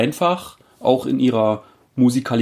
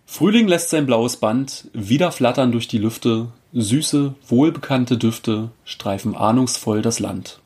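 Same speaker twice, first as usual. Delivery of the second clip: lightly performed poetry reading; poem recitation. Acted. Podcast host opens the episode with a spring poem, recited. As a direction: recite the verse in measured phrases.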